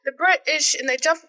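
put-on playful stab at a British accent; attempted British accent. Co-host practising from a TV show, attempted British accent. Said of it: "I was doing really good with that".

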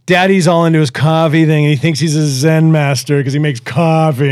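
lightly voiced teasing kid; mocking son imitation. Son tells mom about dad's coffee thing, mildly mocking. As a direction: poke fun at dad, in imitation. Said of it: "starts making fun of me".

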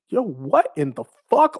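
a blurted, startled "what in the fuck"; stunned disbelief. Retold or imitated. Told backstage he's joining the hierarchy, stunned disbelief. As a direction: caught completely off guard, half laughing. Shocked at surprise heel news.

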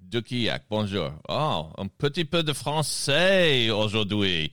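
Boston speaker attempting French, slow and clumsy; slow, hammed-up French accent; bad French accent. Host tries French for his French guest, bad French accent. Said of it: "Man, was that bad".

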